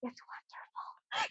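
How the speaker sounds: slow, hushed stoned whisper; acted-out dreamy whisper. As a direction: whisper it slowly in hazy wonder. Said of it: "Whisper mode".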